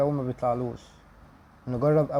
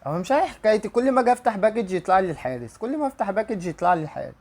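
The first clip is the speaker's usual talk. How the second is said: exasperated complaint; 5 semitones higher, 3 dB louder than usual. Real, not acted. Frustrated by repeat goalkeeper pulls.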